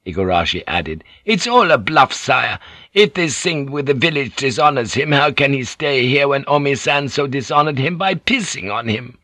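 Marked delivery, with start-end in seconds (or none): 1.3-9.2 higher-pitched, protesting samurai retainer; lightly voiced, indignant retainer; scornful retainer. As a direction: insist to your lord that it's fake.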